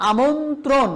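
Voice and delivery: আমন্ত্রণ drawn out slowly as a model word; slow example word. Shown as a demonstration. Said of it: "এইরকম double র ফলা উচ্চারণ করা যাবে না". (ধীরে উচ্চারিত উদাহরণ শব্দ আমন্ত্রণ)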